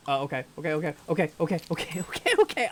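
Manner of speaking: mounting real panic; panicking. Real, not acted. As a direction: stammer it out anxiously, climbing into a squeak. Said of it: "I'm having a fucking panic attack".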